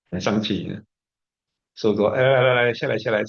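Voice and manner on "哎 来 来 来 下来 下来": loud beckoning call, pitched up. Retold or imitated. Master calling the angry student to come down and talk, raised voice. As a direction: call him down firmly across the room.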